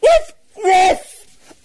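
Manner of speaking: very high, loud barks; furious bear bark. Acted. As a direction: snap back barking. Bear barking back.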